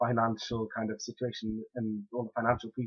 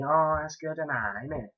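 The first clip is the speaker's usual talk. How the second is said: put-on Welsh Valleys accent; 4 semitones higher than usual. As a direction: imitate the Valleys locals, lightly hammed. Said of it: "So they're really valleys".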